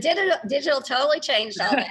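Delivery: words breaking into a light laugh; laughing a little. Real, not acted. Telling the interviewer how digital changed news, with a chuckle. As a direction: let a laugh slip in as you finish.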